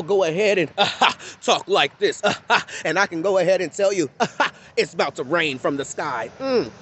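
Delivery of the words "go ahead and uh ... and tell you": mock preacher voice. Mocking pastors who talk like this, preacher singsong. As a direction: parody of the pastor sermon cadence, louder. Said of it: "talking like this".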